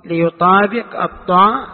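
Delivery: teacher stressing الطاء. Shown as a demonstration. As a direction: lean on الطاء. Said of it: "والصراط بالصاد".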